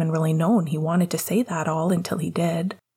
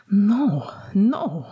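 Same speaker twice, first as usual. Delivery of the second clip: a little loudly; 2 semitones higher than usual. A narrator's reading. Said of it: "he said a little loudly".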